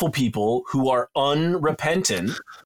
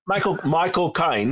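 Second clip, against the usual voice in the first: put-on "Caine" in a Cockney accent, as "kine"; playful Cockney take on "Caine"; 3 semitones higher than usual. Repeats the name in Cockney.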